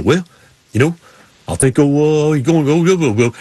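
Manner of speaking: lightly imitated mumbling racer; halting words dissolving into mock gibberish; Sterling Marlin. Racer answering his buddy, lightly mimicked garbled mumble. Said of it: "and Sterling Marlin go".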